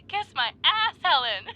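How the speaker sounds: high, loud gleeful taunt; triumphant shout. Acted. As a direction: yell it in triumph at Helen. Triumphant shout mid flight.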